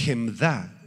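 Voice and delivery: "Hemda" slowly, stressed on its last syllable; final-syllable stress. Shown as a demonstration. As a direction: draw out the DA in "Hemda". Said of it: "con acento en la".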